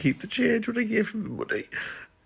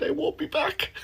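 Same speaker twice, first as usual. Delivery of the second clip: whispered, higher, much softer; sheepish whisper; 10 semitones higher, 8 dB quieter than usual. Shown as a demonstration. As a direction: breathe the slip out as a whisper. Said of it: "Instead, I said".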